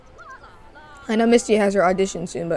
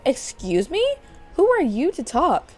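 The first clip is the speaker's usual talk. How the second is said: haughty outrage; 3 semitones higher than usual. Acted. Ray scolds Stella, who works for her, with haughty outrage. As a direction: pitch it up, offended diva.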